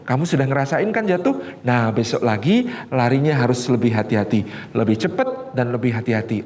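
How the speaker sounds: low, gentle encouragement; encouraging parent. Retold or imitated. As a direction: coach the child kindly after his fall.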